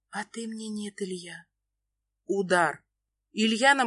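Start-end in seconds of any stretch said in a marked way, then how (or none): 0.1-1.4 much softer, breath-thin; barely audible whisper. A narrator's reading. Nastya lying to Ilya, barely whispered. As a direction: say it so he can hardly hear. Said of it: "шепчу еле слышно".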